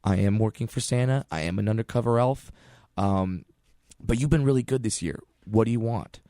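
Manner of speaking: hushed, friendly elf voice; playing along sweetly for the boy; soft, kind to a child. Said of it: "and I say".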